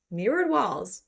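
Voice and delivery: MIRRORED lifted high, then falling on walls; relishing aside. Real, not acted. Reader dwelling on the ballet studio detail, relishing emphasis. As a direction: savour "Mirrored" with a swooping rise and fall.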